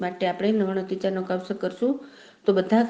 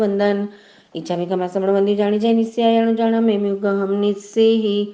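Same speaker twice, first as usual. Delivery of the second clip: even, chant-like prayer recitation. Acted. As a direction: recite sacred verses in a steady tone.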